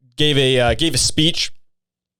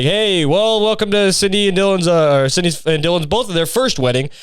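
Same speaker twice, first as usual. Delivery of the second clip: higher, bright mock emcee welcome; mock wedding toast; 6 semitones higher than usual. Joking brother opening the sister's wedding speech, mock emcee voice. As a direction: ham up a cheesy wedding host opening. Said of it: "You're just like".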